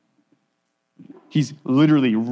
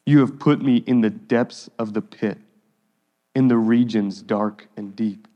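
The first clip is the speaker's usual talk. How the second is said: scripture reading. Acted. Reads psalm aloud.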